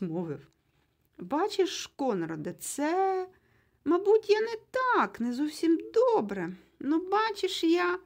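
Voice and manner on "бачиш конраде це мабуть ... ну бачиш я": flustered high stammer, much louder. A narrator's reading. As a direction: stumble over every word, caught out. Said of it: "затинаючись".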